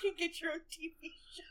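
whisper. Real, not acted. Joke aside.

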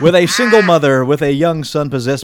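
dramatic movie trailer voice. Acted. Dramatic reading of series description.

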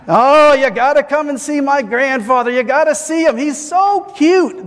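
high, gushing mock of a doting relative; mocking proud grandchild. Seinfeld mocking someone showing off a grandfather, high and gushing. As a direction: gush over grandpa like he's a cute baby. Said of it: "Seinfeld goes on mocking".

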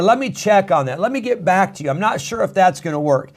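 mock polite excuse; evasive brush-off. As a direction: put them off politely. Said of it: "Or, or".

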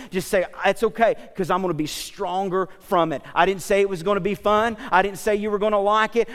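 driving preaching. Acted. Preacher encouraging people through hard situations, driving preaching. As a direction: drive each phrase home to the congregation.

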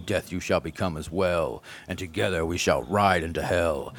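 a mild mock of a solemn dubbed warlord; imitating English dub. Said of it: "this is me imitating what it would, might sound like".

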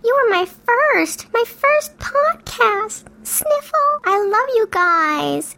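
slow, high, mock-weepy gush; mock tearful. Cohost thanking her first podcast, mock-tearful and slow. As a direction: ham up the tearful gratitude, slowly. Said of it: "Sometimes I get so emotional".

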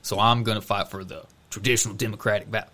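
put-on light Southern accent; slightly Southern-accented impression. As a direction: imitate a politician with a hint of Southern twang. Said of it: "I'm giving him a Southern accent".

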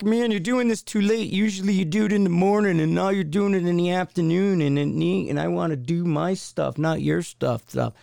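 mock grumble for the dog, fading back toward normal; grumbling dog voice. Host voicing his dog complaining about the late walk, mild mock grumble. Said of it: "'Cause he's like".

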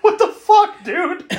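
very high squeaky mock outrage; Stephen King impression. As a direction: squeal it like a cartoon inspector. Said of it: "the way he says that".

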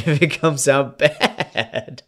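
drawn-out, giggly apology; laughing apology. Real, not acted. Tipsy actor apologising for the accent, laughing. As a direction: stretch it out through a laugh.

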